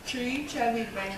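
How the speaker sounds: talking through marshmallows; mouth full. Real, not acted. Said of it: "and then you put them in your mouth".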